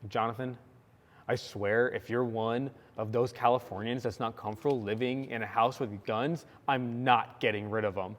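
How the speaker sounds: low, soft, flat-faced threat; lightly voiced stern roommate; deadpan warning. Josh warns the Californian roommate, deadpan and low. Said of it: "dead face".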